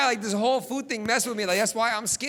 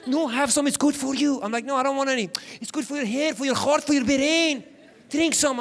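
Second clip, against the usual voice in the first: pushy mom; 4 semitones higher, 3 dB louder than usual. Retold or imitated. Mom pushing tomato juice.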